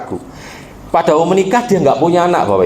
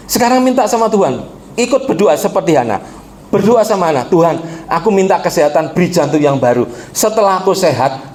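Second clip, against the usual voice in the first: raised, pressing sermon voice; preaching exhortation; 3 semitones higher than usual. Retold or imitated. Pastor telling the sick man to pray like Hana, pressing sermon voice. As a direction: push them to ask for one thing.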